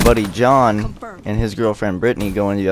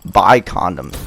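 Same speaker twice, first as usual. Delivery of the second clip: retold exasperated protest to mom; embarrassed kid protesting, retold; 5 semitones higher than usual. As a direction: pitch up in mock exasperation. Retelling exasperated reply to mom.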